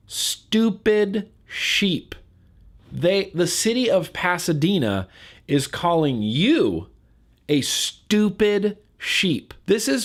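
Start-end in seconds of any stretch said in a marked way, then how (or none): 0.1-2.1 mocking sneer. Mocking the ad's insult. 7.5-9.5 mocking sneer. Mocking the ad's insult.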